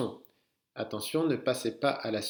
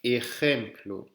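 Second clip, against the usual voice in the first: slow model; 3 dB louder, slower than usual. Shown as a demonstration. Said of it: "celui-ci, le dernier".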